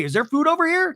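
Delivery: high imitated query; high-pitched diversion. Tamra looking for food during the confrontation, high-pitched. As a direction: pitch it way up as a feigned innocent question. Retold escape from the argument.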